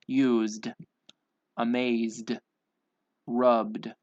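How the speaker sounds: crisp word list, each ending in a voiced d; measured, one-word-at-a-time pronunciation drill; final D sound. Shown as a demonstration. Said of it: "say the D sound".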